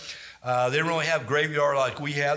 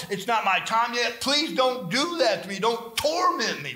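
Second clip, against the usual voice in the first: pleading demon; 6 semitones higher than usual. Acted. Preacher voices pleading demon.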